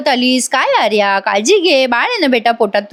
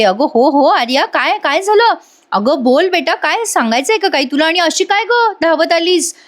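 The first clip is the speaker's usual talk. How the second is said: higher, lilting acted concern; concerned surprise; 6 semitones higher than usual. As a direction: ask like a startled, fussing elder. Worried mother-in-law greets running Arya.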